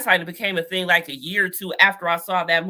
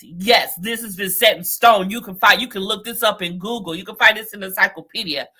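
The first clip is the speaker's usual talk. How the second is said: mocking know-it-all; faster than usual. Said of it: "I hate people who talk like that".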